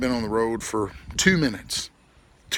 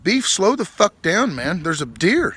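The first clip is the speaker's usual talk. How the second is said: urgent yell; 7 semitones higher, 5 dB louder than usual. Retold or imitated. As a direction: shout at the driver to brake. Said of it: "I'm like".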